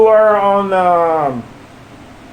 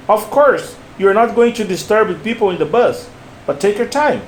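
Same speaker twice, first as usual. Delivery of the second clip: "Of course" set apart with a falling tune; same stress and intonation; 3 semitones higher than usual. Shown as a demonstration. Teacher repeats for the learner, same stress and intonation. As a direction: model phrasing, "take your time" falling at the end. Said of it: "repeat it with the same stress and intonation".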